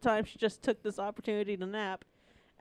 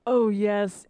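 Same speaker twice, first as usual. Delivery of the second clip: flat statement; 8 dB louder than usual. Acted. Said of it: "he didn't moan. It was more of a statement".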